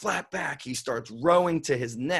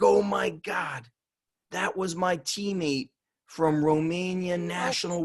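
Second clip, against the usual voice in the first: amazed recognition; 4 semitones higher than usual. Retold or imitated. Coach amazed, retold.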